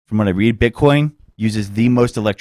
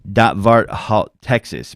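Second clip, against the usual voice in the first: Norwegian phrase; much slower than usual. Shown as a demonstration. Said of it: "would be".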